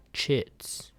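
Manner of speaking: breathy unvoiced whisper; whispered aside. Narrator whispering a sneer at the stranger.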